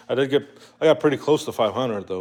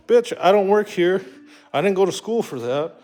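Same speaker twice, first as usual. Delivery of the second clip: acted indignant retort; 7 semitones higher than usual. Customer answering a condescending hospital worker, acted indignant retort. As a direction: tell off a rude worker, in replay.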